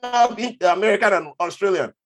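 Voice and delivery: high, loud incredulous yelling; a guard yelling someone out of the queue; mock outraged guard. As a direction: blast him like a fed-up guard. Retold angry guard confrontation.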